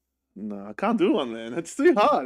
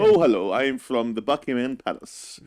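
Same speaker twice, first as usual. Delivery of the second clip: hammed-up posh English accent, a bit louder on "Oh, hello"; 5 dB louder than usual. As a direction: play the posh Londoner from the palace, overdone. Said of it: "Be posh, be London".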